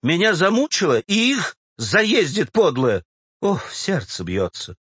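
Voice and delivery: lightly voiced worn-out official, complaining; a put-upon man moaning about his trials; beleaguered bank official. Official moans about being tormented, beleaguered.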